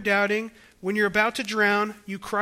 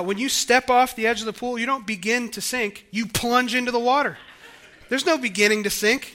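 normal talking voice

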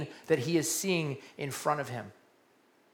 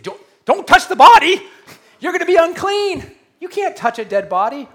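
loud, high-pitched panicked warning; alarmed shout; 12 semitones higher, 12 dB louder than usual. Acted. Onlooker warning the rabbi off the corpse, alarmed. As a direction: cry out as a horrified bystander.

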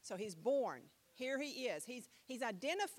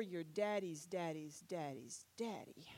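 hushed whisper; 7 semitones lower, 6 dB quieter than usual. Acted. Whispered list of ancestors.

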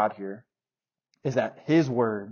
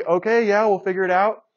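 high, loud mocking of the agent; mock brush-off; 7 semitones higher, 8 dB louder than usual. Mocking the agent's empty promise to fix the refund, high and loud. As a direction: sneer the company's empty promise.

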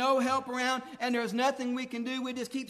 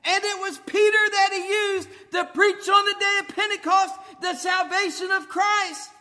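loud, impassioned sermon delivery; preaching at full force; 4 semitones higher, 8 dB louder than usual. Acted. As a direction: pour it out over the congregation.

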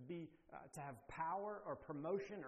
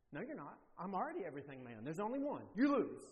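quick, louder taunt ending in a loud final jab; mock child's taunt; 6 dB louder, faster than usual. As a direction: gloat like a kid who just won. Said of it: "son taunting dad in game".

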